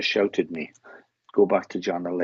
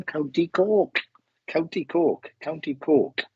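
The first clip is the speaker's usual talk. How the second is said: put-on lilting, higher-pitched southern Irish accent; 5 semitones higher, slower than usual. Medium relays a grandmother from Cork, southern Irish accent. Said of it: "a southern accent".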